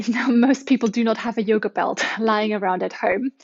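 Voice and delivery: whispered with a giggle; laughing whisper. Real, not acted. Joking aside about yoga belts.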